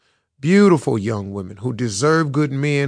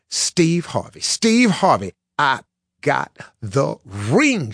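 excited, winded woman; 3 semitones higher, slower than usual. A narrator's reading. Woman chasing Steve Harvey through the parking lot, excited. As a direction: call his name, then stretch out each word of the news. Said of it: "while trying to catch her breath".

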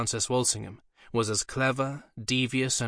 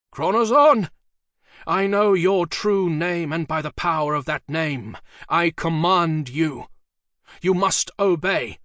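booming, commanding summons, much higher and louder; urgent command; 6 semitones higher, 6 dB louder than usual. A narrator's reading. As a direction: roar the demon's name like a sorcerer. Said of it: "Dee said urgently".

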